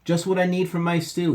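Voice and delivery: high, loud cheerful exclaim; cheerful Papa. A narrator's reading. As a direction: sing it out happily like a proud cook. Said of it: "he said cheerfully".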